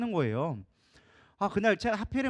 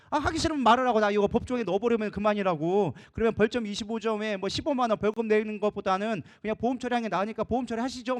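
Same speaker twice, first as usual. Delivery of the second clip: threatening officer. Retold or imitated. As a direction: lean on them like a fed-up officer. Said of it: "막 이렇게 협박을 하는 거예요". (협박조로 압박하는 경찰 흉내)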